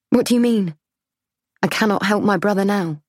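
high, anxious disbelief; alarmed. Acted. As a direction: repeat it as the fear sinks in. Narrator repeats, chilled.

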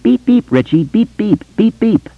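put-on nasal kid's taunt with nose pinched; high boyish voice. A narrator's reading. Ben teases Richie in a high boyish nasal voice. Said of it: "in a high, quavering, boyish voice".

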